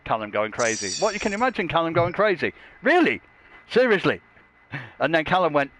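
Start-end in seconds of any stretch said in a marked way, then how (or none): 1.0-4.2 high-pitched incredulous questioning; mock disbelief. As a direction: question it as if you can't believe it. Mock disbelief at viewer's comment.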